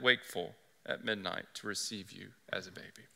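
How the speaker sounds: rising, swelling declaration of the lion; a lightly voiced Aslan proclaiming his hidden care. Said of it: "To which the voice responds".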